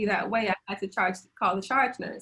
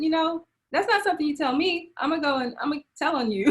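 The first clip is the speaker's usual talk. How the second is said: indignant outrage; 7 semitones higher than usual. Real, not acted. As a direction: rise up in disbelief, half laughing. Indignant retort at careless nurse.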